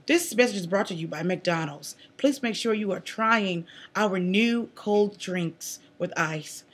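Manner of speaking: slow, soft sponsor message; quiet, measured commercial read; mock ad read. Mock sponsor message mid-show.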